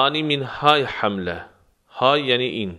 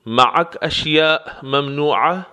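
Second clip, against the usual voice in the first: معک اشیاء ممنوعه said slowly, voice rising at the end as a question; question tune; 3 semitones higher than usual. Shown as a demonstration. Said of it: "با حالت سوالی".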